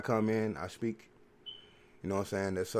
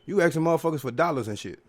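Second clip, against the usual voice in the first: much higher and louder, furious outburst; angry rant; 7 semitones higher, 5 dB louder than usual. Real, not acted. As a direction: lay into her with outrage. Ranting angrily at the woman.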